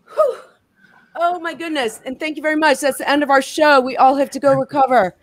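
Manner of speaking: panting after the workout; out of breath. Real, not acted. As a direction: talk while catching breath. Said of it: "I'm out of breath".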